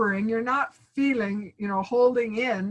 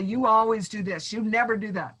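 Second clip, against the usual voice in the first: accusing; 2 semitones lower than usual. Pretend. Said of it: "accusing somebody with a".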